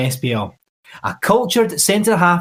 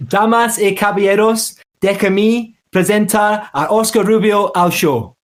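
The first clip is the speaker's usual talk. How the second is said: lucha libre announcer; 5 semitones higher than usual. Shown as a demonstration. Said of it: "we've kind of sorted a little Spanish phrase".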